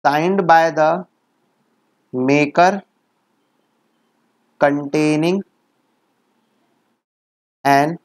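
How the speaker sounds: very slow, word by word with long pauses; slow dictation. Shown as a demonstration. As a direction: dictate each phrase slowly so it can be written down. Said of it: "तुमको ऐसे पढ़ना है".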